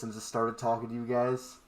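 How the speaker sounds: muffled behind a hand; hand over mouth. Shown as a demonstration. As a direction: talk through a covering hand. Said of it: "if I put my hand over my mouth like this".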